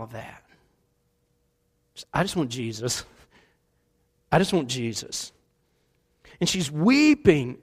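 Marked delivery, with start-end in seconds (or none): 2.1-5.3 low, hushed longing; soft plea. Retold or imitated. Mary weeping at the tomb, hushed plea. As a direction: say it softly, lower and aching.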